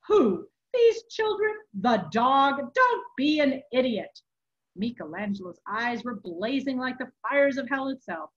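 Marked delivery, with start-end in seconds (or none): 0.1-4.2 loud, incredulous questions; scornful retort. A narrator's reading. Monk dismisses the abbot's charge, scornful retort. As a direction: fire back in angry disbelief.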